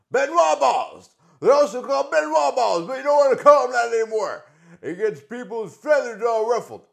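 brash wrestling-legend swagger; Ric Flair impression. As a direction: strut through it like a boastful pro wrestler. Plays Ric Flair character.

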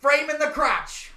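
high, loud, slow wrestler brag; hammed-up wrestling star; Seth Rollins. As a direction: announce it with swagger. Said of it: "Seth Rollins is coming".

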